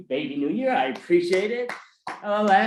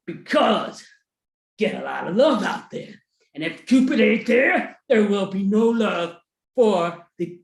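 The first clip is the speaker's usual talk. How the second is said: Cupid character. Acted. Cupid answers, echoing question.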